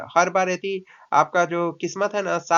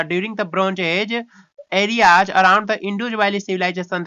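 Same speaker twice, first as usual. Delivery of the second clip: slow read-aloud; much slower than usual. Shown as a demonstration. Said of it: "reading the textbook aloud".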